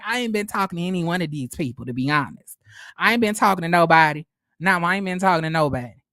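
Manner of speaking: put-on fast, rattled-off thick country accent. Imitating Stormy, thick country accent, brushing off the group. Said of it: "Stormy got a real thick-ass accent".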